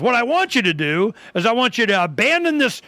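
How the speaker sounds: high, insistent imitation of the friend; friend pleading. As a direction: pitch it up and press him to drop anarchism. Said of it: "But he goes".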